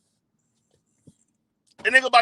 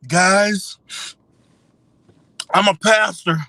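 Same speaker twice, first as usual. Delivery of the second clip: lightly voiced pastor leaning on the Lord; mock tearful pastor. Streamer mocking a man about to be fired, as a pleading pastor. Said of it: "That nigga was acting just".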